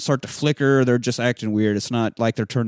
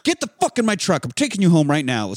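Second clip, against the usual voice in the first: put-on shouting the boy out, pitch way up; furious uncle ordering him home; high angry yell; 10 semitones higher than usual. Uncle finds the masked boy, yells high and angry. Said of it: "He's like".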